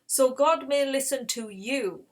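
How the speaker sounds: mock shout from a mountaintop, held back; retold shout. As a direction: imitate calling out to a crowd, mildly. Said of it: "he shouts and he says".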